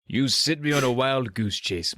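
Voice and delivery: slow, put-on Scottish accent; Sean Connery. Doctor D rebuking the zoo man, slow attempted Scottish accent. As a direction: draw it out in a loose Scottish film-star accent. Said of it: "in his best Sean Connery accent".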